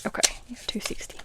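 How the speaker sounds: near-whispered check of a total; quiet muttering to self. Real, not acted. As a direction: confirm it softly under your breath. Confirming a cash count to herself.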